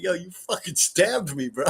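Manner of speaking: can barely get the words out for laughing; giggling mock accusation; laughing through it. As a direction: quote it while cracking up. Retelling the quote while laughing.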